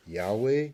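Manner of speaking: "Yahweh" in two syllables, YAH-way; pronunciation variant. Shown as a demonstration. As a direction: say "Yahweh" as YAH-weh, rising at the end. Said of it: "Some people pronounce Yod He Wah He as".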